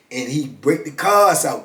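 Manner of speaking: ordinary talk, nothing marked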